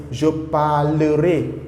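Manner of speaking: parlerai said slowly and clearly; slow model sentence. Shown as a demonstration. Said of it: "For example".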